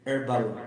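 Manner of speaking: Herbal said as erbal, laughing; silent H with a laugh. Shown as a demonstration. To the viewers, amused by the dropped H. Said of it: "They drop out the letter H".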